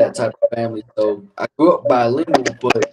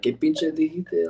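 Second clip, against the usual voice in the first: slow, higher, softer ghetto-style Spanish; 5 semitones higher, 5 dB quieter, slower than usual. Shown as a demonstration. Advising a friend how to ask again, ghetto Spanish. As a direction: draw it out in street Chicano Spanish. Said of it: "pull out the ghetto Spanish".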